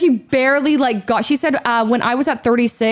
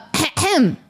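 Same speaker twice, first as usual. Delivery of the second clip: staged throat clearing; 5 semitones higher than usual. Retold or imitated. Acted arrival at the gate.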